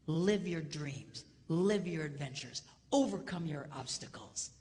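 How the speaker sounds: very slow, weighty; slow exhortation. Real, not acted. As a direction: stretch each word out. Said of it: "sermon exhortation".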